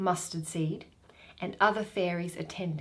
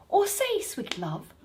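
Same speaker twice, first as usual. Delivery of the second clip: higher, lovestruck queen; doting fairy queen; 8 semitones higher than usual. Acted. Titania wooing Bottom, lightly voiced lovestruck queen. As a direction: coo it to your beloved.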